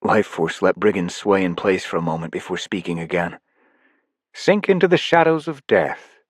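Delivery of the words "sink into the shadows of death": lightly voiced ruler, ceremonially; solemn villain decree. Life Force pronounces a death.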